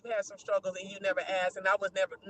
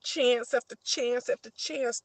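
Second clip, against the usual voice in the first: slow emphatic; much slower than usual. Real, not acted. Refusing to give him more chances, very slow. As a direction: spell it out very slowly.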